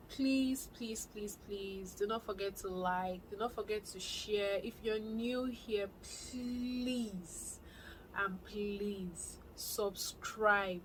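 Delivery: playful pleading, please repeated and stretched; drawn-out coaxing appeal; begging. Real, not acted. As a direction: beg the viewers, dragging out the last pleases. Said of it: "I'm begging".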